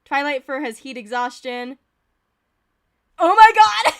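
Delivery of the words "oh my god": loud, high-pitched real shock; shocked outburst. Real, not acted. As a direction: burst out at full volume in disbelief. Startled reaction to game event.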